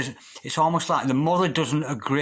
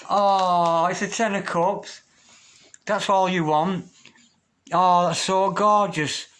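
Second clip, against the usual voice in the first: delighted; 4 semitones higher, slower than usual. Real, not acted. Reader reveals the Ten of Cups for Libra, delighted. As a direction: savour the good card with joy.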